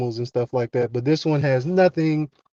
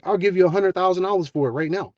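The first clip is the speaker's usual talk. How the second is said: higher-pitched, mildly excited offer; ecstatic appraiser; 4 semitones higher than usual. Retold or imitated. Watch appraiser making the girl a huge offer, mildly ecstatic. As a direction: imitate an appraiser thrilled by his find, with some restraint. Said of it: "He's ecstatic".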